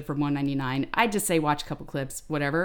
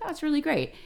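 higher, sugary-fake customer voice; sugary restaurant customer, high; mock sweet customer; 10 semitones higher than usual. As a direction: imitate a falsely nice diner.

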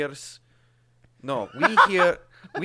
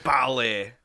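mock macho; 3 semitones higher, 5 dB louder than usual. Mocking macho attitude.

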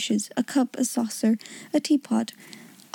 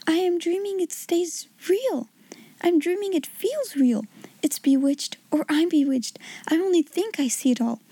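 put-on a girl murmuring to herself in wonder; a little girl whispering that it can't be real; bewildered girl's voice; 5 semitones higher than usual. Sarah's voice, bewildered.

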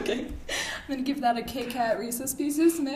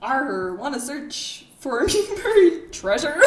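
pirate voice; 3 semitones higher, 4 dB louder, slower than usual. Acted. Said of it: "give it my best pirate voice".

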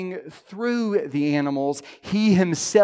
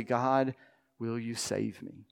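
humble prayer; 6 semitones lower, 9 dB quieter than usual. Retold or imitated. Humble sinner's prayer voiced.

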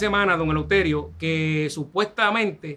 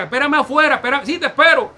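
higher, slightly raised calling voice; retold calling out; 7 semitones higher, 4 dB louder than usual. Scammer telling his victim to wait outside, imitated calling out. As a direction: quickly act out both sides calling.

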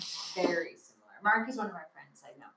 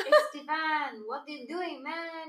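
put-on Chicano accent; 4 semitones higher than usual. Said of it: "half Mexican accent".

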